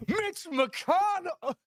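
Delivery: a laughing, high-pitched yell of the name; drawn-out excited blurt. Retold or imitated. Retelling blurting out the senator's name, slow and laughing.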